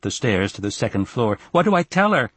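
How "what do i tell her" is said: put-on high-pitched, anxious child; urgent boy's question; pleading. A narrator's reading. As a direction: plead helplessly, voice raised in pitch. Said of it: "Aaron pleaded".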